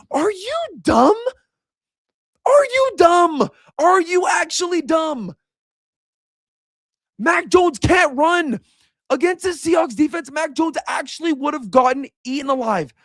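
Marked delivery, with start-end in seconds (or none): 0.1-11.5 incredulous outrage. Real, not acted. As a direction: stretch each word in high-pitched disbelief. Ranting at a fan's tweet.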